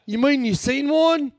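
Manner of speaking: high, drawn-out amazed question; excited tourist. Retold or imitated. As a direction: imitate a thrilled tourist, pitch soaring. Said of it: "he got so excited".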